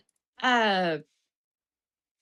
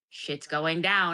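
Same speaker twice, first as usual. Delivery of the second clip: lower, slow ominous line; grim T-doll; 5 semitones lower, much slower than usual. Retold or imitated. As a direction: drop it slow and dark like a doom-laden soldier. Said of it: "the later ones that are like".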